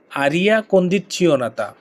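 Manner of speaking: very slow, syllable by syllable: condizionata; slow pronunciation demo. Shown as a demonstration. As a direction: spell out aria condizionata slowly for learners to repeat. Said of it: "আমার সাথে সাথে উচ্চারণ করতে হবে". (ধীরে ধীরে উচ্চারণ করে দেখানো)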